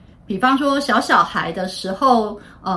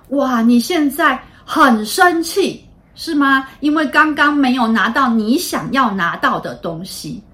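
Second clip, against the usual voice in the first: slightly raised, emphatic helper voice; adult naming child's feeling; 2 semitones higher, 4 dB louder than usual. Shown as a demonstration. Adult helps upset child name anger, lightly acted and emphatic. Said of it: "那可以帮他把情绪讲出来".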